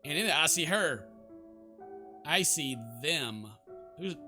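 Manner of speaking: measured read with long pauses; story narration. Acted. Sleepless heroine recounts her restless dreams, measured narration. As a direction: narrate the nightmare deliberately. Reads game's narration aloud.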